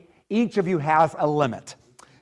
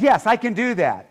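higher-pitched, willing yes; eager brain; 7 semitones higher, 4 dB louder than usual. Retold or imitated. Dad's brain agrees to the appointment, eagerly voiced. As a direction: imitate a keen, can-do brain. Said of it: "my brain says".

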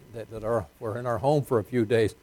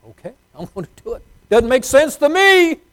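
grudging obedience; 12 semitones higher, 11 dB louder than usual. Retold or imitated. Voicing himself grudgingly obeying God.

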